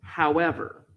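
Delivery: "However" said calmly and level; an easy, even "However". Shown as a demonstration. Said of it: "I say however very calmly".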